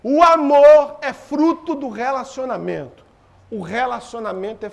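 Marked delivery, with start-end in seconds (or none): 0.0-3.0 slow, louder emphatic read. Shown as a demonstration. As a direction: spell each word out slowly.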